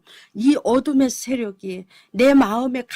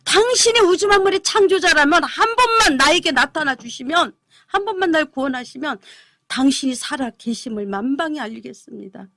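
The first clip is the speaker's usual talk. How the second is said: crying out to heaven; 4 dB louder than usual. Retold or imitated. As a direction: plead upward with a raised voice. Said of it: "울면서 하늘을 쳐다보고 부르짖는 거예요".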